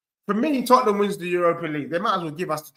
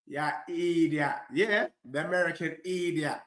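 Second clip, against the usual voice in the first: Caribbean accent; 4 dB quieter than usual. Shown as a demonstration. Football fan demonstrating his put-on accents, Caribbean accent. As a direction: stretch out IDIOT with a Caribbean lilt. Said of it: "that's with the Caribbean accent".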